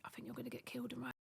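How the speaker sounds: fast hushed warning in the back of the car. Retold or imitated. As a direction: murmur it so the captors can't hear. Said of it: "he was going".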